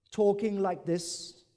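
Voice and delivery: slow robotic monotone. Shown as a demonstration. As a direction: speak like a robot, slowly. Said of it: "When you sound robotic".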